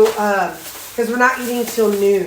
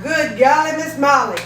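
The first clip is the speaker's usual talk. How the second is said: higher-pitched retold exclamation of shock; mock astonishment; 5 semitones higher, 3 dB louder than usual. Vlogger retelling seeing the weight, mock astonishment. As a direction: exclaim in playful disbelief, pitch lifted. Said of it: "I'm like".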